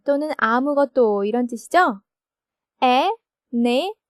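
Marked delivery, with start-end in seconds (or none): 2.8-4.0 anything stretched very slowly, first syllable an strongest; anything drawn out, punch the opening an; stress on an. Shown as a demonstration. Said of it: "첫 번째 음절 에의 액센트가 있죠". (anything를 아주 천천히, 첫 음절 an을 강하게)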